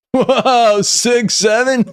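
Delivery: high excited whoa; surprised. Acted. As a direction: react in sudden surprise. Surprised meme reaction.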